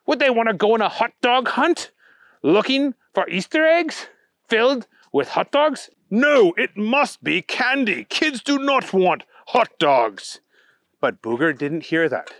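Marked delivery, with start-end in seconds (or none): 0.1-10.4 high, bouncy bunny voice, slowing at the end; high bunny voice insisting kids want candy; Easter Bunny voice. Acted. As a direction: play the fussy Easter Bunny lecturing. Easter Bunny figure in story.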